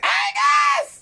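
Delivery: distant shouted call; shouting name. Real, not acted. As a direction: call his name from far off. Wife calls from off.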